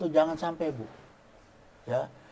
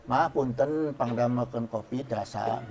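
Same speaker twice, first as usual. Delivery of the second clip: polite request; 3 semitones lower, 6 dB quieter than usual. Retold or imitated. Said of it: "bahasa-bahasa ... baik".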